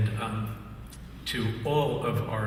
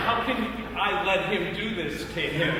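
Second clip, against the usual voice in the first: higher, laughing mock of Samuels; laughing through the quote; 8 semitones higher than usual. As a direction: voice his dismay while cracking up. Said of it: "looks at me like".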